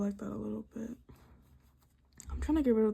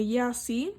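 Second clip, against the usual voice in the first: mocking critics; faster than usual. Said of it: "the power to tell me".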